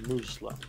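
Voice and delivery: "Muslim" as MOOZ-lum, z for s; mixed-up "Muslim", Arabic vowel, English z; mispronunciation. Shown as a demonstration. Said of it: "I would mispronounce it".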